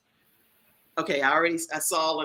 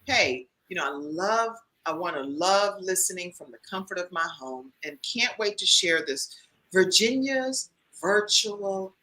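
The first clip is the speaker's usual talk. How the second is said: Virginia; slower than usual. Retold or imitated. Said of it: "if I was doing Virginia".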